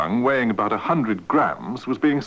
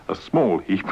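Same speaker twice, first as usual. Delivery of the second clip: giggling; 3 semitones lower than usual. Real, not acted. Newsreader cracks up mid-take.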